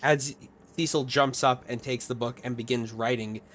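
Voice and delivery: slow, measured scene setting; game master narration. A narrator's reading. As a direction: draw out the ominous tale with pauses.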